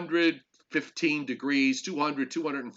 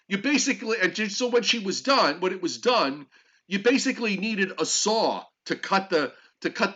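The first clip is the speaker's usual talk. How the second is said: exasperated; 6 semitones higher than usual. Real, not acted. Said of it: "I'm sorry to be winded".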